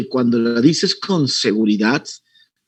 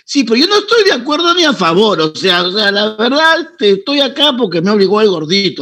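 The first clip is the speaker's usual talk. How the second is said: mock evasive excuse; 5 semitones higher than usual. Coach imitates student's evasive excuse.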